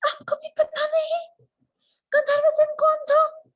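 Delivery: squealed, very high question; incredulous queen. Acted. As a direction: shriek in theatrical disbelief. Queen shocked at king. (हैरान रानी की चीख)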